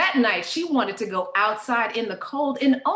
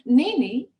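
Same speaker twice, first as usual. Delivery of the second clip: higher-pitched, lightly voiced pleading mother; a hint of a fretting mom; worried mother; 5 semitones higher than usual. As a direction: question her as an alarmed mother would. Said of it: "Mother tried to stop her".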